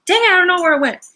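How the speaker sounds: high, loud, quick flash of annoyance; exasperated outburst. Real, not acted. Host has dropped a crystal mid-stream, quick exasperated outburst. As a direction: blurt it out, briefly flustered.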